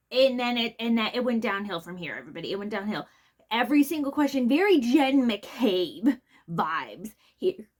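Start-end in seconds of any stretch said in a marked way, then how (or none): 3.5-7.7 a quick, breathless whisper of gossip; whispered aside. Real, not acted. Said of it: "whispered aside".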